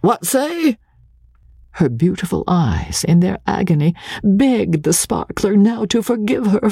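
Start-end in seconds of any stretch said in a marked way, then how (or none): 0.0-0.8 put-on high, odd old man's query; a touch of a deaf old man; old clerk. A narrator's reading. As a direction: hand to the ear, asking again.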